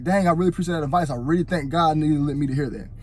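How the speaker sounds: earnest, quick thankful tone; mean every word of the thanks; sincere. Shown as a demonstration. Looking advice-givers in the eyes, sincere thanks. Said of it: "I'm very more sincere".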